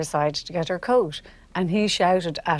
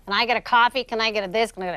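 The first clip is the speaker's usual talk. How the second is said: arrogant demanding passenger; 3 semitones higher, faster than usual. Retold or imitated. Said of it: "loud and arrogant".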